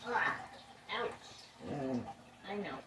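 squashed under a dog; strained while being squished; being squeezed hard. Real, not acted. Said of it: "You're squishing me".

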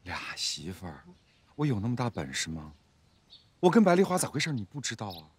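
fed-up, mostly low-voiced grumbling; weary, irritated retort; impatient. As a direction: answer as if sick of the questions. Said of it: "你咋这么不耐烦".

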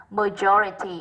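"majority" slowly, stressed on "jo"; second-syllable stress. Shown as a demonstration. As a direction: lean on the "jo" of "majority". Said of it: "âm hai".

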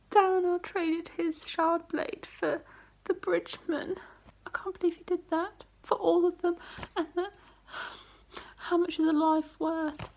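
high, tearful voice; deeply moved, voice lifted high; choked up. Real, not acted. Moved by a character's sacrifice.

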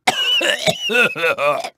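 breaking into staccato laughter; theatrical laugh. Acted. Racer after a close call, staccato laughter. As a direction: laugh in uneven, punchy bursts.

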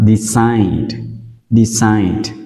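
"decide" with an S sound and "ide" as in eye. Shown as a demonstration. Teacher explains C before I, saying "decide" with S. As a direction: say "decide" as di-SIDE, falling. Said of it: "nó sẽ được đọc là S".

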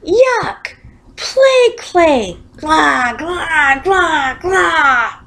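high, loud yuck and gagging; disgusted yell. A narrator's reading. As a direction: bellow your disgust at the taste. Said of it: "he yelled".

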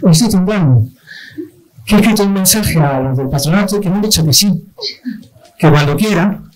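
attempted Italian accent that slips into Galician; half-hearted Italian accent sounding Galician; failed Italian accent. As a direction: try an Italian accent, hear it come out Galician. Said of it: "A mí me sale gallego".

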